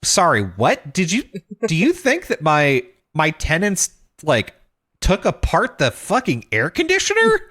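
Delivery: outraged disbelief rising to a high peak; incredulous retort. Retold or imitated. Incredulous reply to the warranty company.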